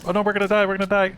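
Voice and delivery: high panicked cry; shaky stammering panic. Real, not acted. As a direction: panic as the character dies. Freezing to death in game.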